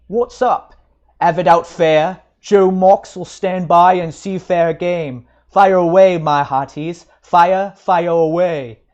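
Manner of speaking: rowdy bellowing. A narrator's reading. Joe Mox staggers from the gin shop, bellowing for a fight. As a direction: egg the fighters on boisterously. Drunken brute bellows at crowd.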